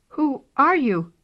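high little kitten voice, curious; a timid kitten asking. Acted. Kitten talks to the cat.

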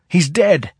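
He's dead hurled high and loud; shouted. Acted. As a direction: yell He's dead in rage. Gossa raging at Selver.

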